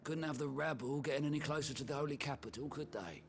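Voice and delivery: worked-up, resentful griping; indignant complaint. Acted. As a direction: vent a trader's grievance. Trader complains about the duke.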